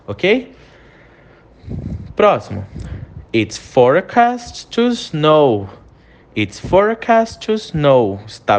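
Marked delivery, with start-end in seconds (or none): 3.3-5.7 slow, careful model sentence for students to repeat; slow model phrase. Shown as a demonstration. Teacher modelling for students to repeat, slow and careful. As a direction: spell out It's forecast to snow slowly and clearly. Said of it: "eu quero que você repita a pronúncia".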